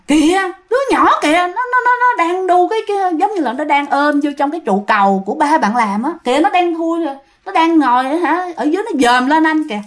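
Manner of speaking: high, stammering retold alarm; urgent pointing out. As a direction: act out someone urgently pointing at something below. Acted frightened pointing at a ghost child. (giả giọng hốt hoảng chỉ trỏ, cao, lắp bắp)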